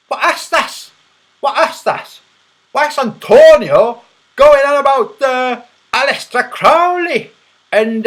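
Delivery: high, loud outraged mimicry; mocking impersonation. Streamer taunting a rival with his old video, mocking mimicry. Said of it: "when you made a video going".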